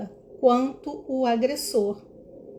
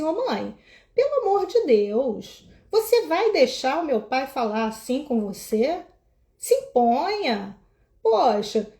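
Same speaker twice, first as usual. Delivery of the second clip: son pleading. Retold or imitated. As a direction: beg mom to stand up for herself. Son pleading with his mother. (filho suplicando à mãe, voz mais aguda)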